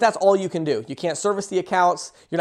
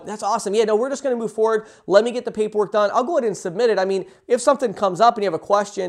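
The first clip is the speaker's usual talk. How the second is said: assumptive close. Shown as a demonstration. Rep writing up the sale, assumptive and upbeat. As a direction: act as if the deal is already done. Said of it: "really assumptive".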